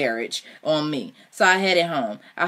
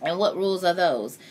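amused; 3 semitones higher than usual. A narrator's reading. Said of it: "I asked with laughter in my heart".

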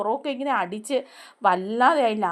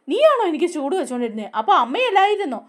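surprised laughing question; 5 semitones higher, 3 dB louder than usual. Retold or imitated. Vikram surprised it was Veda.

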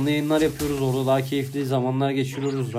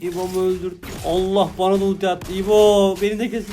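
high, urgent fight shouts; frantic higher calls to the team; excited callouts; 7 semitones higher, 7 dB louder than usual. Real, not acted. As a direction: bark orders in the chaos of a fight. Heated teamfight callouts.

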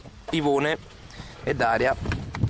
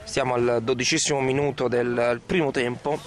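sports commentator voice; calling the match live; live play-by-play. Acted.

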